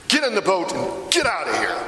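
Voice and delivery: short, sharp order to leave; very curt. Retold or imitated. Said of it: "Very curt".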